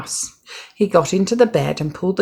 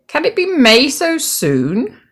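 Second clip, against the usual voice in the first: higher, wondering voice; surprised question; 10 semitones higher, 3 dB louder than usual. A narrator's reading. Toad surprised that May came so soon. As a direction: sound amazed.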